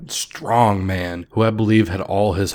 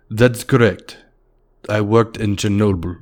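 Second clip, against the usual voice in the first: put-on Russian accent. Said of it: "in a very heavy Russian accent".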